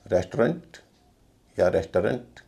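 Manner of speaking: रेस्टोरेंट as rest-runt, then res-tuh-runt; other variants. Shown as a demonstration. Teacher listing common forms, रेस्टोरेंट as rest-runt or res-tuh-runt. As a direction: end रेस्टोरेंट in a weak -runt, two then three syllables. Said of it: "और भी उच्चारण प्रचलित हैं".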